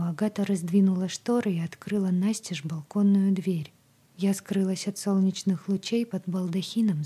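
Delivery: plain reading voice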